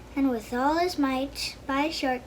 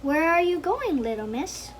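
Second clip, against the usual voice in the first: put-on a wolf faking sweetness to a little girl; sweet gruff wolf; 3 semitones higher than usual. Wolf luring the girl in the woods, mild sugary gruffness. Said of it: "in the sweetest, gruff voice".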